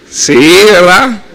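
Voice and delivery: drawn-out, unconvincing yes; imitating a husband dodging the question; evasive stalling. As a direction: stall with a slow, stretched answer.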